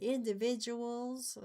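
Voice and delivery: slow, drawled country way of saying Individuals; country accent. Shown as a demonstration. Explaining spelling to a partner, in a country accent. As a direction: say Individuals like a country speaker, stretched out.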